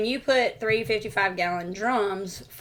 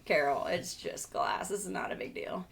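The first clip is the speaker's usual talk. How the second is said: soft reassurance; 5 semitones lower, 13 dB quieter than usual. Retold or imitated. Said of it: "And I was like".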